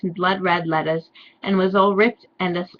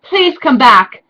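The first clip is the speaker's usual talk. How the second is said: mock pleading; 6 semitones higher, 8 dB louder, slower than usual. Draco calling her back.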